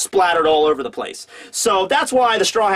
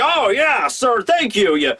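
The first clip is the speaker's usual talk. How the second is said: high, thankful voice that sneers at the end; grateful then rude; 4 semitones higher, slower than usual. Retold or imitated. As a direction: thank the boss sweetly, then mutter the insult. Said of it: "Frankie's just like".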